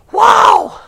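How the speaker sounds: a high shouted wow; sudden high shout of wonder; excited wow. Real, not acted. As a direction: burst out in amazement. Preacher reacts to scripture.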